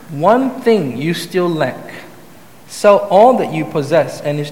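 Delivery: measured Bible reading to the congregation; scripture reading. Acted. Preacher reading the gospel to the church, measured and steady. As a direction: read the passage steadily, like a lesson from the pulpit. Reads the scripture passage aloud.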